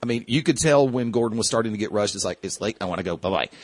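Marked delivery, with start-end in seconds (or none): 2.4-3.5 lower, softer dismissive mumble of a quote; mock brusque brush-off. Host imitating a rushed announcer leaving fans, mock brusque. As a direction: imitate a curt goodbye, low and offhand. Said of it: "he didn't say it like that".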